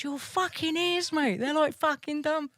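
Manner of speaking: high-pitched voice, laughter about to burst; retold helpless amusement. Retelling her answer to the big-eared man, helpless amusement. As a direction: squeak it out high, on the edge of cracking up.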